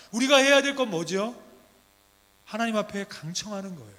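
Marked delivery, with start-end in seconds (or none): none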